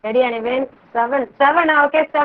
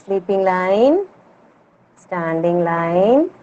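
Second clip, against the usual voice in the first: slow, lower, drawn-out steps for each stroke; slow dictation; 6 semitones lower, much slower than usual. Shown as a demonstration. Teacher talking pupils slowly through writing ka. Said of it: "teacher shows how to write ka".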